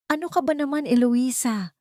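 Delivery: high, sharp angry yell; angry shout. A narrator's reading. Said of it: "sigaw agad ni Mateo".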